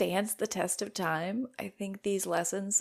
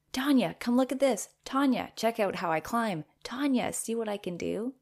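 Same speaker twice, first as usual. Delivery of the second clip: put-on eager child calling; 4 semitones higher, 3 dB louder than usual.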